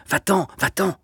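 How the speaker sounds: high, hurried frightened plea; frightened stammer. A narrator's reading. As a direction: stammer it out in panic. (balbutiement affolé et aigu)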